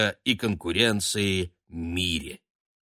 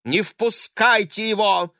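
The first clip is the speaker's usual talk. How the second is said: high, loud sharp command; wife ordering nurse to keep husband out; 11 semitones higher, 6 dB louder than usual. A narrator's reading. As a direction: order it curtly. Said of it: "резко распорядился".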